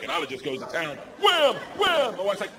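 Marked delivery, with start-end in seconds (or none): 1.2-2.2 mimicked whamming, shouted; acted-out slam. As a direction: punch out each word like a blow. Acts out child going to town.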